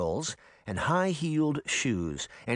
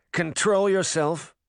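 slow, loud, firm order; stern command; 6 semitones higher, 4 dB louder than usual. Acted. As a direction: shut him down coldly. Queen commands mirror.

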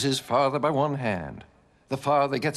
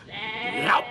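mimed gulp; 7 semitones higher than usual. Acted. Giant gulps down a sheep.

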